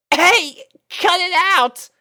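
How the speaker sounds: very high, loud protest through laughter; laughing plea. A narrator's reading. Rainbow pinned by kissing puppies, laughing and begging. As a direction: beg them to stop while giggling. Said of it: "she begged".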